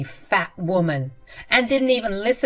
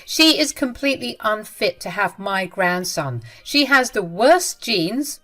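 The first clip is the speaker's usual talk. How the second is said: furious scolding; 3 semitones higher, 6 dB louder than usual. Acted. Mother scolding her son, louder and furious. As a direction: spit out the insults.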